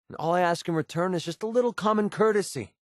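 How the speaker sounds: high-pitched, exasperated complaint; indignant demand. Acted. Asking a partner for common courtesy, indignant. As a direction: demand respect, voice lifted in frustration.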